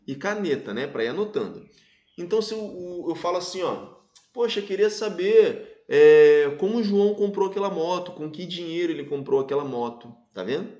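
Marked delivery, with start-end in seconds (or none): 4.3-10.1 musing indirect question, no questioning rise. Shown as a demonstration. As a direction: wonder aloud without directly asking. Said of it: "É uma interrogativa indireta".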